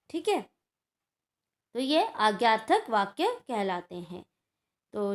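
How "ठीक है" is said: ordinary talk, nothing marked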